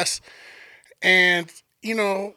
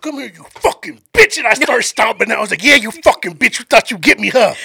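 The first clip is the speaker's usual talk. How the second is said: louder taunting at the wasp; mock furious taunt; 5 dB louder than usual. Stomping the wasp on the bus floor, louder mock rage. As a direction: ham up a stomping tough guy.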